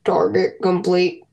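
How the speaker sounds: slow flat robot readout. Pretend. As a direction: announce it like a machine, slowly. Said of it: "It all sounded like a robotic voice".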